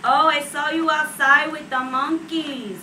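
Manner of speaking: high, loud, drawn-out grandma voice; imitating grandma. Grandma to grandchild about her friends, mocking scold.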